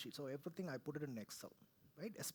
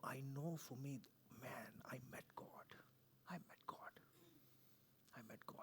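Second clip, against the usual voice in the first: awed whisper; 3 semitones lower, 9 dB quieter than usual. Real, not acted. Awed testimony of meeting God.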